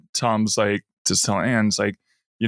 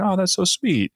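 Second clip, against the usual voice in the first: mock gushing; 9 semitones higher than usual. Acted gushing reply before a hug.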